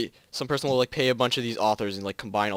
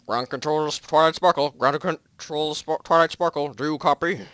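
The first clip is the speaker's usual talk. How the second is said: radio voice; 4 semitones higher, 4 dB louder, slower than usual. Acted. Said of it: "You suck at that voice".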